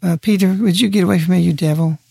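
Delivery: a hint of polite hesitance, asking nicely; mildly meek, almost apologetic; mock timid request. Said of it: "I don't think he said it".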